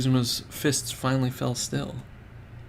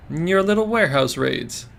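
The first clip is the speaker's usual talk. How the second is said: higher and louder, dragging out little; slow needling tease; 4 semitones higher, 4 dB louder than usual. Acted. Baiting the gang leader about his raids, slow teasing. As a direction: lean on little to bait him.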